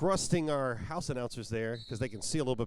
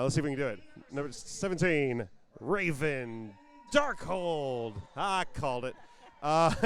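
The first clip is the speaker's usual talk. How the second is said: roster call. Acted. Announcing the Virginia roster to the crowd, arena announcer. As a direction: stretch each skater's name out for the crowd.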